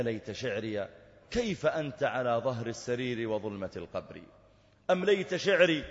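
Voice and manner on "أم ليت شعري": higher, louder plea in the verse; emotional outcry. Acted. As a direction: lift the voice in anguish. (صيحة متأثرة)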